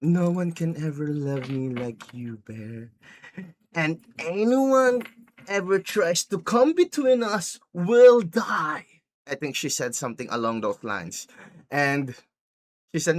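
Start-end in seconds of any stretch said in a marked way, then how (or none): 0.0-8.9 slow possessive declaration, rising higher as it builds; imitating an unhinged, obsessive lover; crashed-out Nikki. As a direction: start drawn-out, climb into a high-pitched mock threat. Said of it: "Nikki crashed out and went like".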